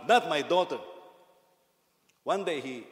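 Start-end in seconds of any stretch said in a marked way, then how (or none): 0.1-0.8 loud, booming no from a strict father; big baritone voice. Retold or imitated. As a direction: thunder it out, protective dad. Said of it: "With a big baritone voice".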